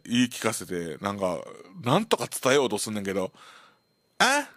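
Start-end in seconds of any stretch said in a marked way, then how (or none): 4.2-4.5 gruff what. Retold or imitated. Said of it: "みたいな感じで聞き返されて".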